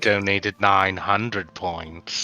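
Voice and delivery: slow, deadpan boast. Real, not acted. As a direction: draw each word out, deadpan.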